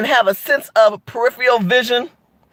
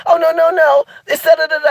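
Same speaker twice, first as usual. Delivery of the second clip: mocking white commenter; 4 semitones higher than usual. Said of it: "This is how I tell them".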